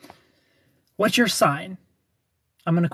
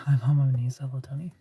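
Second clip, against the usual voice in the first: sighed whisper; 4 semitones lower than usual. Real, not acted. Sighing reaction to comment.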